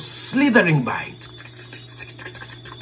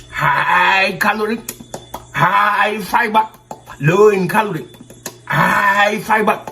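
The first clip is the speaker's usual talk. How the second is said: hint of a chicken refusing; chicken character; 2 semitones higher than usual. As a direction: stretch the words out as a fussy chicken. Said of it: "Said the chicken".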